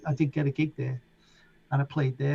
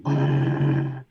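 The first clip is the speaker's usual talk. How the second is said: imitated synth pad. Describing the pad on the club record, buzzed. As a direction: buzz the lips like the pad sound. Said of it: "It's going".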